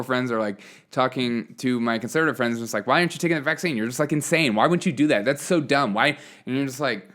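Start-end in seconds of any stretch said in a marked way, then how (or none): 2.9-6.2 higher-pitched imitation of a badgering friend; exasperated, pestering retold questions; mock indignant nagging. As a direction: imitate someone incredulously berating a friend. Voicing friends berating each other over vaccines.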